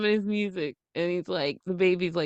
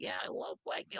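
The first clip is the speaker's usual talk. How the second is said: mock whisper; 15 dB quieter than usual. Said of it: "They're always like".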